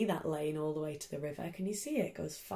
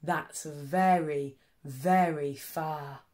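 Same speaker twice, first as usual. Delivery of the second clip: slow daddy hare; 4 semitones lower, slower than usual. Acted. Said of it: "said Big Nut Brown Hare".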